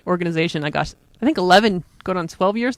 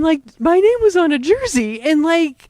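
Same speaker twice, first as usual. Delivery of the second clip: choking up; 8 semitones higher, 3 dB louder than usual. Real, not acted. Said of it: "I'm gonna cry".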